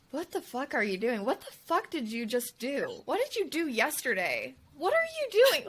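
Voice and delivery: nagging inner critic, pitch leaping at the end; critical inner voice. Acted. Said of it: "that's my voice right now".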